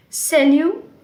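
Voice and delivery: salut said the French way, sa-LU, with a rising end; teacher modelling salut slowly. Shown as a demonstration. Teacher models salut for students. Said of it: "Salut is hi".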